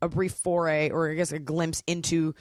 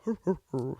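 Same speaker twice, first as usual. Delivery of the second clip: dog laughing; 2 semitones lower, 4 dB quieter than usual. Retold or imitated. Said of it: "a dog going".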